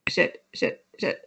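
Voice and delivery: hushed, breathless shit under the breath; panicked muttering. Retold or imitated. Patient staring at the pee bottle, panicked hushed swearing. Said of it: "he's looking at the bottle the whole time going".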